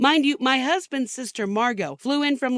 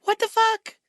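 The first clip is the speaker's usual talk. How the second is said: what the fuck shouted high with fuck hit hard; high, loud, incredulous what the fuck; exasperated outburst; 13 semitones higher, 4 dB louder than usual. Real, not acted. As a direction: let it burst out in disbelief. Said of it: "I mean, seriously".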